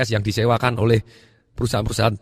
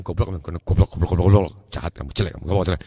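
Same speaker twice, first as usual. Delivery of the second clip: mock scolding; 4 semitones lower than usual. Shown as a demonstration. Family insulting the rice jar.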